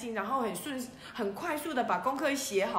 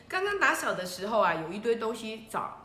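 usual speaking voice

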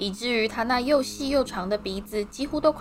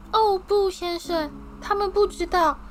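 eager house-elf Dobby; 8 semitones higher than usual. A narrator's reading. Dobby thrilled to finally meet Harry, high squeaky voice. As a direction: squeak it out, overjoyed.

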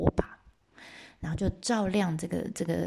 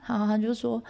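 usual speaking voice

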